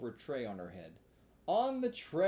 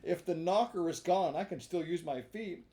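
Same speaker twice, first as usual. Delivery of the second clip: angry; 4 semitones higher, 5 dB louder than usual. Acted. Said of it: "blind with rage".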